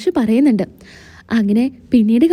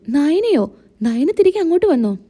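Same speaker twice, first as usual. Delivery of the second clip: higher, rising surprised question; startled disbelief, pitched higher; 4 semitones higher than usual. Acted. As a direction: caught off guard by the news. Mother hears startling news.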